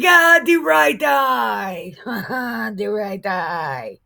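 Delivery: hammed-up wail, slow and loud; mock lament, stretched out and loud. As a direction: wail it like a cartoon mourner. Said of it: "they lifted up their voices and cried".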